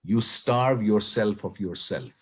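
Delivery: unhurried recital with long pauses between lines; measured, deliberate poetry reading; slow poem reading. Real, not acted. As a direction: read the poem slowly, letting each phrase stand alone. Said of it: "I'll read it very slowly".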